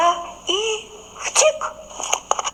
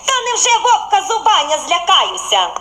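laughing bun; 7 semitones higher, 3 dB louder than usual. A narrator's reading. Bun mocks the wolf.

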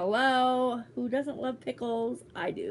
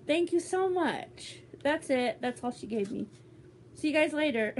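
mock sign-off; 5 semitones higher than usual. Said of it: "I'm just kidding".

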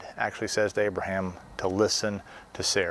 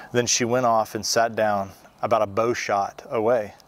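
louder, measured Bible reading; scripture reading; 4 dB louder than usual. Acted. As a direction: read the passage out to the congregation with weight.

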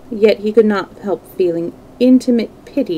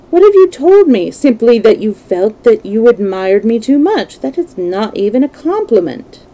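a touch of indignant dismissal; lightly acted lad brushing off a confession; lightly voiced young Dorian, protesting; 3 semitones higher, 4 dB louder than usual. Plays Dorian answering the painter.

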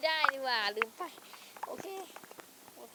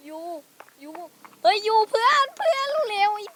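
high, loud frantic yelling at a teammate; loud panicked shout building higher and higher; 9 semitones higher, 13 dB louder than usual. Real, not acted. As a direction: scream for your friend to hurry. Enemy arrives, calling teammate.

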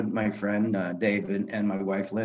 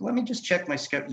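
mock deliberation; 9 semitones higher, faster than usual. Jokingly feigns being busy to friend.

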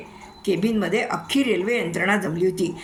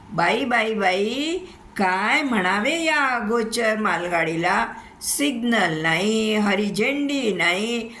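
lamenting goods train; 2 semitones higher than usual. Acted. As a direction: moan theatrically about the shame.

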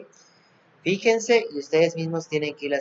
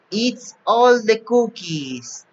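higher, slow playful monster read; mock monster voice; 6 semitones higher, slower than usual. A narrator's reading. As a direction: ham up the greedy monster a little. Monster eats the cookies. (voz de monstruo juguetona)

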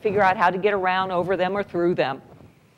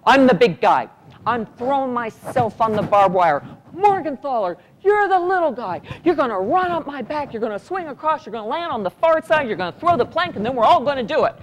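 hint of a take-charge cadet; loud gung-ho soldier; 4 semitones higher, 3 dB louder than usual. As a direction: give orders like a sure sergeant. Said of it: "He looked at it and he went".

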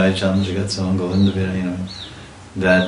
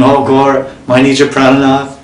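raised, louder loving call to the Lord; ecstatic cry; 6 semitones higher, 6 dB louder than usual. Acted. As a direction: cry out to your beloved across the distance. Advaita cries out to Gaura.

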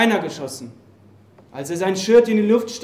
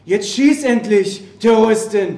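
defiant challenge; 2 semitones higher, 5 dB louder than usual. Acted. Soldier defying his executioner.

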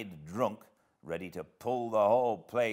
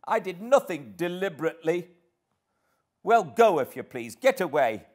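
high, loud petulant outburst; vehement, high-pitched girl's protest; indignant cry; 11 semitones higher, 9 dB louder than usual. A narrator's reading. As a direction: dismiss him in a loud huff. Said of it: "she cried, recovering her speech".

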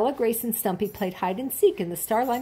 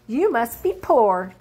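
slow, louder mocking jab; taunting weasel; 3 semitones higher, 5 dB louder, slower than usual. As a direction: drag it out to sting her. Third weasel taunts Stella.

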